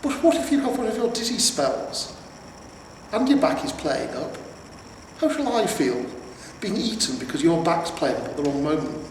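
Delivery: put-on a nervous old horse fussing at his master; fretful talking horse. Horse voiced in story.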